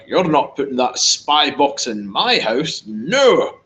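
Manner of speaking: slow Scottish brogue, rising to a defiant no; mock indignant Scot in a Scottish accent; Irish protester in a Scottish accent. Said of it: "that was a Scottish accent".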